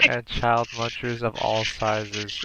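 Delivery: slow, even robot announcer; robotic voice. Pretend. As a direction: read it like a computer. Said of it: "in a robotic voice".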